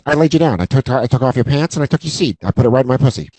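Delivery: quick, matter-of-fact guy patter; lightly voiced fast-talking movie buddy; Vince Vaughn. Woman recounts the night to him, talking like Vince Vaughn. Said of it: "she talks like Vince Vaughn".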